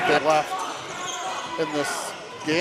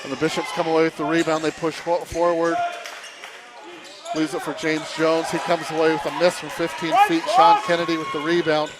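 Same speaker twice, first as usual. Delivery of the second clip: play-by-play. Acted. Live basketball play-by-play.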